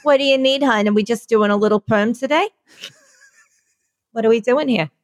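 lightly voiced salon hairdresser with a cigarette; smoking beauty-salon woman. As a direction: play a folksy beehived stylist greeting a customer. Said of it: "a woman with a beehive smoking a cigarette".

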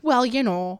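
imitated North Dakota aunt; aunt's North Dakota accent. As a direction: lightly mimic your aunt's Dakotan lilt. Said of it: "you just read it in her voice".

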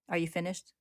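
calm. Acted. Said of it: "she asks calmly".

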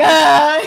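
high, loud comic wail; hammed-up cry; mock bawling wail. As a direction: act out a muted outburst of bawling. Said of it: "I'm bawling, crying, and mute".

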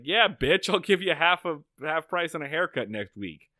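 mock Floyd. Floyd quoted brushing Barney off.

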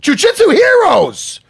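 loud, slow, high proclamation; proud proclamation. Real, not acted. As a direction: announce it like a title. Repeats the phrase, then proclaims it.

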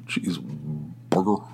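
slow, low, soft Californian Cheeseburger; Californian accent. Retold or imitated. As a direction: draw out Cheeseburger Californian style. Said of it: "those people are from California".

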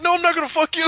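high, loud acted protest; mock indignant denial. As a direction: refuse it loudly, as if appalled. Acting out bedroom fight quarrel.

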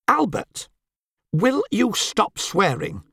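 sharp, high reproach, slowing on the question; censorious hiss. Acted. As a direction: scold him like a prim wife. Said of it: "she hissed in that censorious way".

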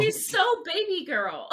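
high, slow, giggly gush; gushing with laughter. Real, not acted. Fan gushing over Gojo to friends, laughing. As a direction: coo it through a laugh.

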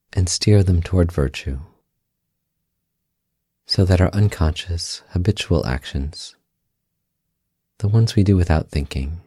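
calm, unhurried meditation guide with long pauses; guided meditation. Acted. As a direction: guide them gently inward, leaving space after each phrase.

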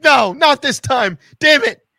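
hammed-up desperate yelling; mock frantic shout. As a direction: yell it like a panicked relapse. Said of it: "sometimes I'm like".

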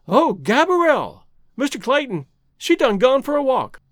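high-pitched, flustered character voice; frightened woman. A narrator's reading. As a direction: wail it in a fluster. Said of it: "cried the frightened woman".

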